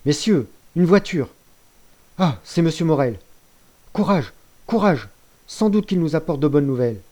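loud, high announcing cries; rally everyone with the news; excited shouting. Acted. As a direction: lookout shouting that Morel is coming.

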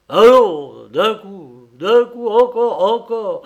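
loud, high straining exhortations; mounting effortful bursts; heaving effort. A narrator's reading. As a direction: urge yourself on with each heave. Grandfather heaves the pot out.

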